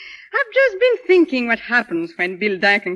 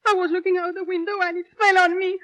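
higher, tearful complaint; whimpering; 5 semitones higher than usual. Acted. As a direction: whimper through the pain. Whimpering in pain.

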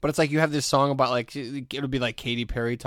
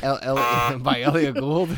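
put-on New York Jewish accent, playful; 5 dB louder, slower than usual. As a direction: say it like an old Jewish New Yorker. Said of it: "it's a Jewish accent".

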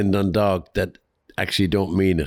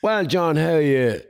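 greeting a moaner; 4 semitones higher than usual. Retold or imitated. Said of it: "And you go".

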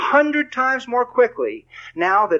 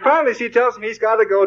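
laughing through words; 7 semitones higher than usual. Real, not acted. Laughing while retelling the plot.

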